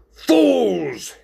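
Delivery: high, loud angry cry. Acted. Ringmaster losing patience with the friends, an angry outburst. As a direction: hurl it out high in exasperation. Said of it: "starting to get angry".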